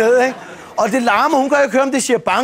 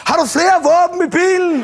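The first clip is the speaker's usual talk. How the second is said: mock police yell; 6 semitones higher than usual. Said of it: "råber".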